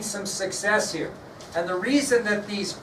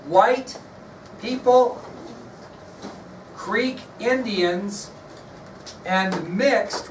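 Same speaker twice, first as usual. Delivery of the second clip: word-by-word dictation with long pauses; slow, deliberate classroom dictation; dictating to a class. Real, not acted. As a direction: parcel it out for note-takers, pausing between phrases. Teacher dictating notes to students.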